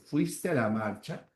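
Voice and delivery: soft yes-no question lifting on "marcha"; rising question tone. Shown as a demonstration. Teacher giving a second example question, "marcha" rising. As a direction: raise the pitch at the end of "marcha". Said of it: "la inflexión de voz va a subir".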